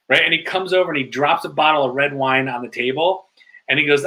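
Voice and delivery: usual speaking voice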